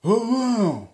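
high, loud mock old-lady mumble; imitating the old lady's mutter, shrill and loud; mumbled hold on. Mocking the old lady who blocked his car, high and loud. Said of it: "I just hear her mumble".

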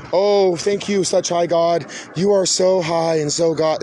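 hammed-up, slow, fawning thank you to a high God; mock uppity worship. Mocking a worshipper who fawns over God, hammed-up uppity. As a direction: overdo the reverence as a mock. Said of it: "don't have to get all fucking uppy".

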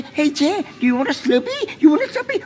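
high-pitched mock Indian accent; exaggerated Indian accent, pitched high; mock stereotyped Indian accent. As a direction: sarcastically parody an Indian shopkeeper's accent. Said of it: "Do I talk like a turban guy?".

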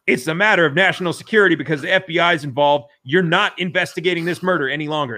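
loud, emphatic imitation of a court ruling; mock authoritative. Quoting a federal court halting a murder investigation, mock authoritative. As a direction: lay down the law, retold.

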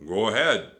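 loud pirate growl; Captain Bones. A narrator's reading. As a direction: growl permission impatiently. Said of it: "growled Captain Bones".

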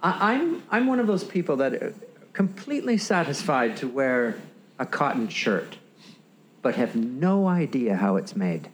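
lightly put-on English accent; a hint of a posh English accent. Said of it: "do it in your English accent".

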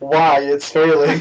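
slow, dramatic voice-over; hammed-up TV narrator, drawn out; heavy narrator voice. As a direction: land it like a reality-show reveal. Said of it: "In that very narrator heavy voice".

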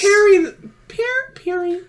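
very high broken tries of Perry; Doofenshmirtz try. Retold or imitated. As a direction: fumble the villain's cry. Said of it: "Doofenshmirtz impression".

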